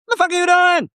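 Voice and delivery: high-pitched, incredulous yelled demand; mock sergeant yell. Drill sergeant charging at straining recruit, mock high yell. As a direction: imitate a drill sergeant's outraged challenge.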